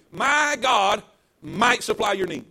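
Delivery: slow mock misreading of the verse; a mock wrong reading, drawn out; deliberate misreading. Shown as a demonstration. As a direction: read it wrong on purpose, slowly. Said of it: "Is, is that what that says?".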